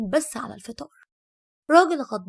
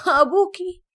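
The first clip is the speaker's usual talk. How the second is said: louder, scornful mother's comeback; mocking retort; 5 dB louder than usual. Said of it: "ردت أمي بتريقة وقالت".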